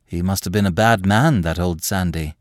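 side with him gently; understated fellow feeling; sympathetic. Acted. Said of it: "said Loveday sympathetically".

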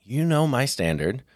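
lightly voiced firm dad telling his son to stop; a hint of a firm parent; mock stern dad. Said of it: "And I go".

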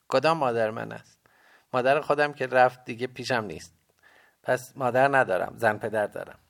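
put-on high, loud boy's protest; young boy protesting. A narrator's reading. Boy character explains about mother.

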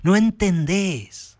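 acted outburst of frustration; furious shout. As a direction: explode at the brother. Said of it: "Terry estalla de verdad y le grita".

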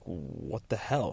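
slow, soft mock disbelief; flabbergasted. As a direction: let it out slowly and quietly, stunned. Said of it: "he's a bit flabbergasted".

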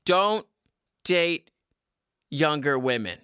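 don't ... date ... younger women, each word set apart by pauses; slow emphatic warning. Shown as a demonstration. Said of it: "I'm telling ya".

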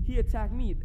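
loud, insistent protest; indignant protest. Retold or imitated. Boy retelling protesting to the principal, loud insistent protest. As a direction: push back hard, defending yourself. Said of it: "I'm like".

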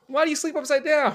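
high, loud hammy hero voice; goofy cartoon hero puzzling; Batman voice. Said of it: "We're not vampires, Robin".

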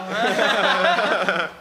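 slow, tipsy and laughing. Real, not acted. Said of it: "Tô bêbado já".

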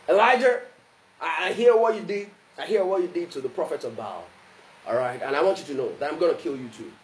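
mildly menacing ultimatum; threatening letter. Acted. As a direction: deliver a measured threat. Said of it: "that was the tone of the, of the letter".

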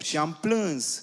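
drawn out slowly, "plâns" sinking at the end; slow sorrowful stress. Shown as a demonstration. Interpreter repeating John's weeping to the church, slow and heavy. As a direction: stretch "Și am plâns" out slowly with weight on "plâns". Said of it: "I wept (repeated)".

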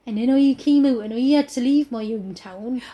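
exaggerated Cornish accent from a TV trailer; hammy Cornish narration; mock Cornish accent. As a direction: send up a thick Cornish accent. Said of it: "more of those accents".

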